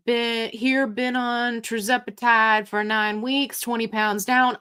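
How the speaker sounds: light Southern twang. Real, not acted. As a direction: read it out with a touch of Southern twang. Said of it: "like, a Southern twang tonight".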